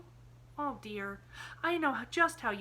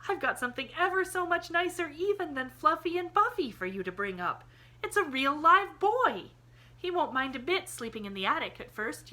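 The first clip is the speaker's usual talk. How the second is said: much higher and louder, beaming; triumphant; 8 semitones higher, 8 dB louder than usual. A narrator's reading. Pollyanna presenting the boy to Aunt Polly, higher and louder in triumph. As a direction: show off the prize boy. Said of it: "she triumphed".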